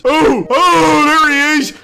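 startled yelp. Real, not acted. Startled by Baldi appearing.

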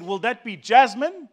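a hint of a posh hostess; posh offer. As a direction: put on airs offering the tea.

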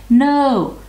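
high, loud little-goat protest; youngest goat's cry. A narrator's reading. Youngest goat stops the troll, high cry. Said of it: "cried the youngest billy goat Gruff".

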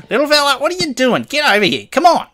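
fast, high-pitched calling to a pet; high excited calling. Real, not acted. Player calling a stubborn little mob to come, high excited calling. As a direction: coax it over, bright and urgent.

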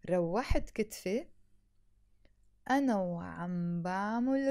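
slow, deliberate sentence with pauses; slow teacher model sentence; slow repeat-after-me. Shown as a demonstration. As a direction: say it slowly for learners to repeat. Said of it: "say it slowly with me".

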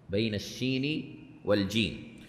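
quiet, reflective restatement of the phrase; soft repeat. Shown as a demonstration. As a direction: repeat بين الشين والجيم quietly to yourself. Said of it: "وهو حرف بين الشين والجيم".

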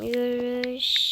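drawn out slowly; slow and deliberate. Shown as a demonstration. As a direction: say it slowly and clearly. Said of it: "Yürüyüşe çıkalım diyeceğim".

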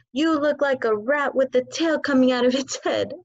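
loud sneering shout. Acted. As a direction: shout it in her face. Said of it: "and shouted".

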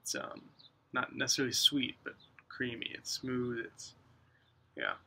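speaking around a pipe stem; talking with pipe in mouth. Real, not acted. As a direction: lips gripping pipe while talking. Seen 0: Pipe stem held between lips throughout all labelled frames.

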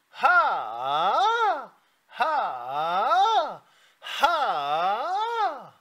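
"하" swooped up into a light falsetto; falsetto ha demo. Shown as a demonstration. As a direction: model the falsetto "하" slowly. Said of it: "일단 백 번 하고 와". (가성 "하" 시범)

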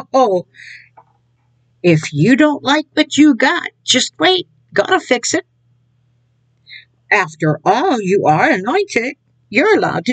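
mock sing-song believer. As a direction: pitch it up like a self-assured churchgoer. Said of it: "And that's how they talk".

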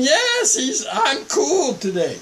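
high squeaky puppet voice with a laugh. Pretend. Preacher voicing the toy Dodo saying he is calm, squeaky. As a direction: voice the toy answering. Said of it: "He's saying".

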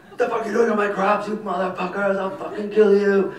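high, loud, fast enraged yelling; furious farmer's scream. Retold or imitated. Crazy farmer screaming at filmmakers in his field, enraged high yell. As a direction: scream at trespassers like a crazed farmer. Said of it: "he starts screaming at us".

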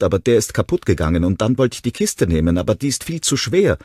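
put-on high, loud, desperate child's voice; a small boy pleading through despair. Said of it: "Immer wieder musste er nach Luft schnappen". (verzweifelter Junge, hoch und laut, außer Atem)

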